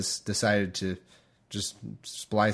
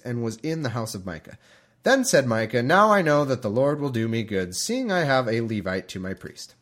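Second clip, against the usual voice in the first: scripture reading. Acted. Podcaster starting the chapter in a measured reading voice. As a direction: read the passage out with care. Reads Judges aloud.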